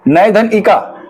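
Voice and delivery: नय धन इका drawn out slowly, each part apart; teacher slowing नय धन इका for students to follow; slow, spelled-out split. Shown as a demonstration. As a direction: dictate नय धन इका slowly to the class. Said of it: "नायिका में क्या होता है".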